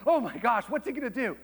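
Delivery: put-on high, panicky kid; playfully exaggerated panic; mock freak-out. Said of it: "like, freaks out".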